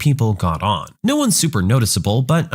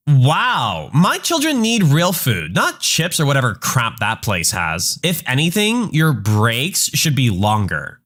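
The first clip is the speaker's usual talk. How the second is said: entitled mother; slower than usual. Acted. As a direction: sound put out and self-righteous, pitched up. Mom argues back at driver.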